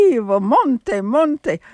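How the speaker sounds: imitated Italian mother's call; lilting Italian accent, calling a child home; attempted Italian accent. Retelling how his mother called him, attempted Italian accent. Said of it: "trying to make an Italian accent".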